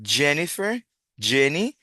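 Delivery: "Jennifer, Jenny" with a clear "dj" onset; English J sound. Shown as a demonstration. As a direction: model "Jennifer, Jenny" word by word, rising.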